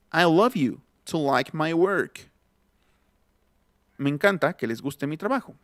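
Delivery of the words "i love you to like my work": slow "I love you to like my work", work as "werk"; English example sentence. Shown as a demonstration. Teacher showing work in a phrase, slow demo. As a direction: model the sentence slowly, ER vowel in work.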